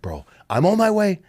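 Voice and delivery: high-pitched, pleading imitation of Deepu; frantic high pleading; begging Deepu impression. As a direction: beg like a panicked guy with a squeaky voice. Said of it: "He's telling me like this".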